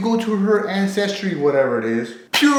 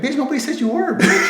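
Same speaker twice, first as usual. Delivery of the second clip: incredulous shout; 9 semitones higher than usual. Real, not acted. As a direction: yell the comeback. Retort shouted at her.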